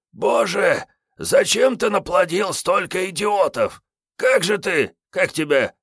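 put-on high-pitched scornful old tramp; boozy stalker Kiryay. Wounded Kiryay brushing off Sergey's help, scornful. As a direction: wave off the fuss, hungover and rude.

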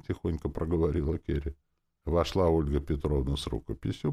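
ordinary delivery, nothing marked

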